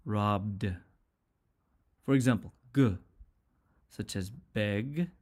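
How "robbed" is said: "robbed" said as robd. Shown as a demonstration. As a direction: end "robbed" on a voiced d sound. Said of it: "we use d for".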